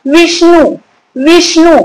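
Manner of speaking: "विष्णु" with weight on the opening वि; stress on first syllable. Shown as a demonstration. Teacher asking pupils to hear the stress, stressed "विष्णु". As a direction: lean on वि in "विष्णु". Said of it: "किस पर जोर पड़ रहा है?".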